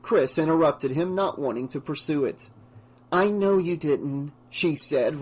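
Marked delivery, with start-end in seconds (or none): 3.1-4.3 slow gentle reassurance; reassuring. Acted. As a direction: soothe him kindly. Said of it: "reassuring him".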